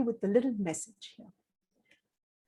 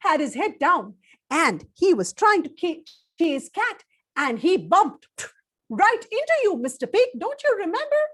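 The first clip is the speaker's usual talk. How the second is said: louder, higher, urging the pig to remember; excited prodding; 4 semitones higher, 5 dB louder than usual. Acted. Storyteller urging Mister Pig to remember, excited. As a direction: push him to recall it, eager.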